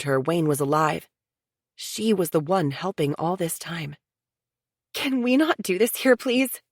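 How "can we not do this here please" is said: higher, pleading plea; nervous plea to move somewhere private; begging. A narrator's reading. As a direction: beg her to take this elsewhere. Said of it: "Sarah begged".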